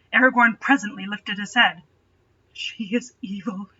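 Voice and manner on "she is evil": shaky voice. A narrator's reading. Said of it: "he said with a shaky voice".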